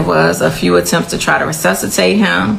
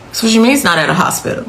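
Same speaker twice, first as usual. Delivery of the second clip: retold freaking out; 3 semitones higher, much faster than usual. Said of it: "I'm freaking out. I'm screaming".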